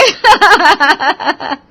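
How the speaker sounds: loud giggling burst; teasing laughter. Acted. Bhabhis laughing at groom Prem, loud teasing giggles.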